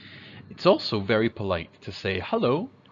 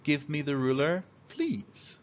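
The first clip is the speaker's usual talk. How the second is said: plain, gentle request with please; polite request; 4 semitones higher than usual. Shown as a demonstration. Kid politely asking for the ruler, gentle request. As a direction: ask nicely, lifting please. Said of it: "we say".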